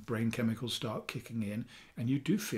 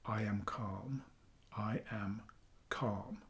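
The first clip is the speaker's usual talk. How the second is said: calm affirmation; 8 dB quieter, slower than usual. Shown as a demonstration. Coach models a self-havening phrase for viewers, calm and soft. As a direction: say it quietly to soothe yourself, leaving space between words.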